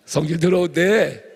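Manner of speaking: slow words squeezed out through laughter; laughing through words. Real, not acted. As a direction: speak while still laughing. Still laughing into the punchline.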